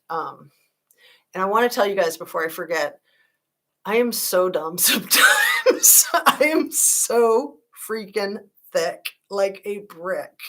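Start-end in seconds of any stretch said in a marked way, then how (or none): 3.8-10.4 slow, louder, laughing self-mockery; laughing at herself. Real, not acted. Streamer laughs at her own forgetfulness, slowly and louder. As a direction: call yourself dumb with a laugh.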